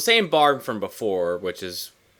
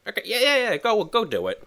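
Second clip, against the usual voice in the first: mock eager agreement; 11 semitones higher than usual. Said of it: "And he's like".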